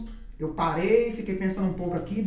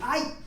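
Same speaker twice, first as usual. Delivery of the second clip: high, brief mock yelp "ai"; retold yelp of pain; 7 semitones higher than usual. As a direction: imitate a startled cry, raised in pitch only. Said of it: "deu um grito, fez assim". (imitação de um grito agudo de dor)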